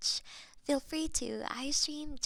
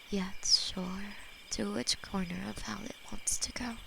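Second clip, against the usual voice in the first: whispered demon lover; 4 semitones lower than usual. Acted. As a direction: hold them close and murmur tenderly as a loving demon. ASMR demon lover roleplay.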